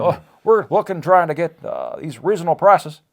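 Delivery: earnest campaign promise in a borrowed twang; Obama with a Carter twang. Acted. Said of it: "a hint of Jimmy Carter in there".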